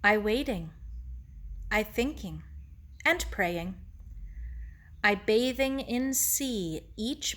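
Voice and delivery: lightly voiced Japanese-accented elder, unhurried; measured, pausing phrases in a light Japanese accent; serene Mister Ito. Ito explains his waiting to Sarah, lightly voiced serenity.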